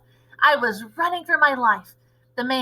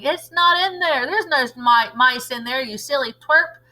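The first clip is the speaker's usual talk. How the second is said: raised scoffing shout; 3 semitones higher, 3 dB louder than usual. Acted. Cooks scolding the cook, raised shout. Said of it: "they were shouting".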